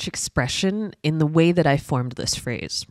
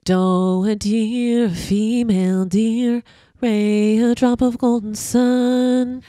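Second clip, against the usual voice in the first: mumbled vowels; slower than usual. Shown as a demonstration. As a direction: mouth nearly closed, muffled. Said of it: "when I'm not really articulating my vowels".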